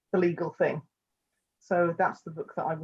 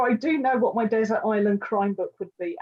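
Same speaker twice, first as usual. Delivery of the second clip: usual speaking voice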